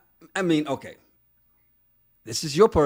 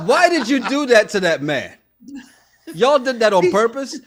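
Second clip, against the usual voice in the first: raised, louder telling-off; indignant scolding; 4 semitones higher, 5 dB louder than usual. Acted. Host confronts the group over the man, indignant scolding. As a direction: scold them on the man's behalf.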